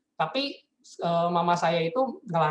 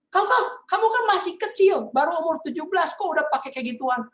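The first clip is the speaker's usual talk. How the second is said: much higher, louder shocked mother scolding; shocked mom; 11 semitones higher, 4 dB louder than usual. Retold or imitated. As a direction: gasp at him like a horrified mom. (mama kaget memarahi anaknya, nada sangat tinggi)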